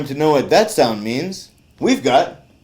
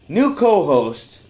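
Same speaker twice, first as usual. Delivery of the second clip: slow, dragging reluctance rising to loud; reluctant slow intro; 4 semitones higher, 4 dB louder, slower than usual. Acted. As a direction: drag the name out unwillingly.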